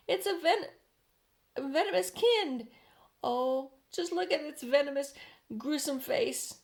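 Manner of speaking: high, loud dread; frightened cry. A narrator's reading. Police chief crying out in horror at Miss Spider. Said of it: "cried the chief of the police".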